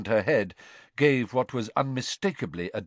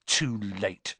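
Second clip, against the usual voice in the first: bitter. Acted. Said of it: "said Ron bitterly".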